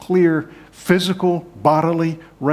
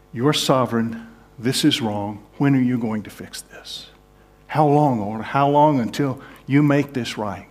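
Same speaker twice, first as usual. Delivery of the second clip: lament prayer. Shown as a demonstration. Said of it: "It's like saying".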